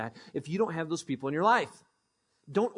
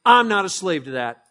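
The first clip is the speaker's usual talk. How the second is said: much louder, defiant; firm declaration; 9 dB louder than usual. Shown as a demonstration. Pastor teaching a reply to temptation, defiant. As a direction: say it back at temptation. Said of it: "you say".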